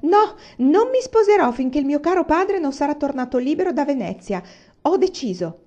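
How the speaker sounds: stubborn daughter yelling; shouting. Acted. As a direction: shout the refusal at mother. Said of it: "e lei gridò".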